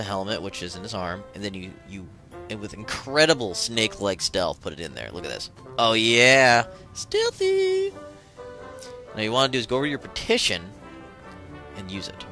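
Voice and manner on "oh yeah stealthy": squeaky high stealthy; mock triumphant. Gloating over stealth move.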